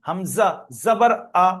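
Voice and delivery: spelling drill, vowel "আ" kept short; no elongation. Shown as a demonstration. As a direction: say "হামজা, জাবার আ" with a short final আ. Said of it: "আমি টান দিইনি".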